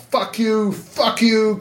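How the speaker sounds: high, loud re-enacted outburst; freaking out. Prisoner freaking out at news of release, high wild yelling. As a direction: replay a wild, elated cursing fit. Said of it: "Och då freakar jag loss och bara".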